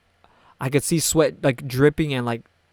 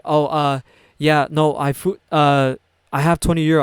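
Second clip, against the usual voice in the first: imitating someone fumbling for an excuse, louder; caught out, stalling; 2 semitones higher, 6 dB louder than usual. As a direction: stumble through a cover story. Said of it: "trying to explain himself, but also he knew he got caught".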